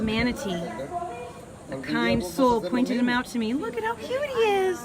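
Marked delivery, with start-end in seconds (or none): 3.5-4.8 soft high coo. Real, not acted. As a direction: coo at the cute manatee. Cooing at a manatee.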